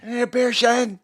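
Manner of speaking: high, loud Australian call; Aussie accent. Pretend. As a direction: shout it out, broad Aussie. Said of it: "can you do an, uh, Aussie accent".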